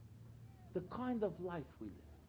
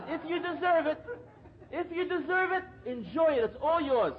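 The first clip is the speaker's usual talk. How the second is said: loud, laughing retelling of the rabbi's words; can't hold back the laugh while quoting; rabbi's line spoken through laughter; laughing through the quote; 8 semitones higher, 12 dB louder, slower than usual. Retold or imitated. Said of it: "He says".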